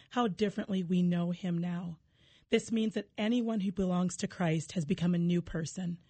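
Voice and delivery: measured solemn Bible reading; scripture reading. Acted. Reads Scripture aloud.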